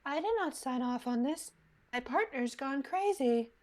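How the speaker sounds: understated in-character complaint. Shown as a demonstration. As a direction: slip into the character's voice for the line. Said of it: "I should do it in the voice".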